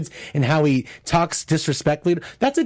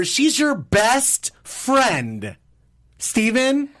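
sarcastic slow repeat; 3 semitones higher, much slower than usual. Real, not acted.

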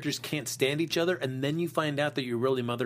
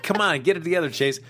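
louder, laughing exasperation; laughing scold; 2 semitones higher, 5 dB louder than usual. Retold or imitated. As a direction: scold him through laughter. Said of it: "I'm like".

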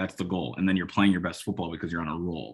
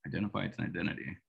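"Identify its identity" tossed off softer and quick; wry quiet repeat; 2 semitones lower, 9 dB quieter, faster than usual. Shown as a demonstration. Host savouring his own clumsy phrase, a quick soft aside. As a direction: mutter it back as a wry aside. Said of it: "That's either lazy or pretty dope".

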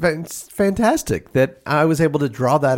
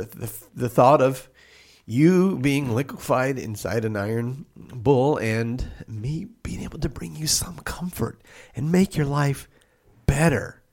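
choked up; slower than usual. Acted. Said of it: "I'm getting a little choked up".

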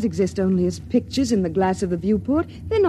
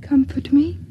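whispered plea; 3 semitones higher than usual. Acted. Frightened woman asking her mate to comfort her, whispering. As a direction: breathe it close and needy.

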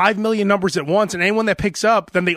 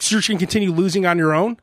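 rude telemarketer; faster than usual. Retold or imitated. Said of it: "And the guy's like".

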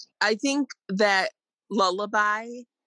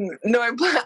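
laughing; 2 semitones higher than usual. Real, not acted. Laughing mid-word.

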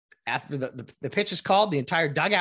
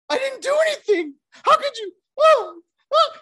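very high, loud schoolkid protest; childish whining; 8 dB louder than usual. Retold or imitated. Hitter pleads innocence to umpire like a whiny child. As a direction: whine like a third grader caught out. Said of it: "fourth grader, third grade".

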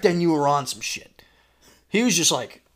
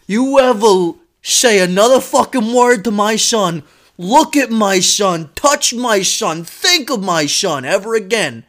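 menacing dad; 4 semitones higher, 5 dB louder than usual. Retold or imitated. Dad threatens bully at length.

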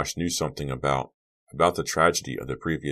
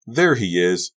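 louder, higher call across a distance; yelling; 4 semitones higher, 6 dB louder, slower than usual. A narrator's reading. Boy at the far end of the courts, yelling. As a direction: call out as if spotting someone far off. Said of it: "a boy's voice at the far end of the courts yelling".

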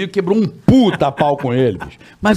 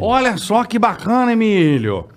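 imitated newsreader. Newsreader tells host about a TV debut, imitated announcing. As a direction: read out good news with relish.

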